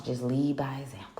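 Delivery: "Just lead by example" breathed as a soft secret whisper; whispered "Just lead by example" like sharing the secret sauce. Shown as a demonstration. Advice repeated as a whisper.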